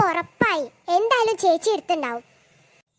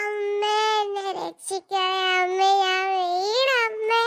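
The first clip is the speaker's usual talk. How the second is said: hurt moaning; much slower than usual. Acted. Lying hurt after the fall.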